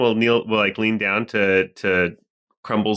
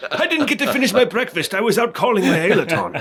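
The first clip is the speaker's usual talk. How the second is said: giggling through the words; can't stop laughing mid-sentence; 9 semitones higher than usual. Real, not acted. Player laughing through line.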